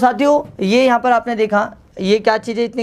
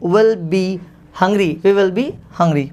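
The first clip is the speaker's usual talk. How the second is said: slow dictation; much slower than usual. Shown as a demonstration. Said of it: "so आप बनाएंगे".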